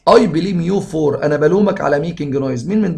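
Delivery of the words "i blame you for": slow dictation. Shown as a demonstration. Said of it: "teacher reads exam sentence".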